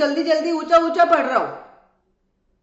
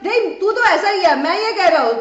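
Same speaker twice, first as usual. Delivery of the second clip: raised, louder voice of an arguer; mock shouting; 4 semitones higher, 5 dB louder than usual. X arguing with Y in a teacher's example, mock shouting. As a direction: act out X yelling in a quarrel. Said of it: "एक्स भी चिल्ला चिल्ला के बोल रहे हैं".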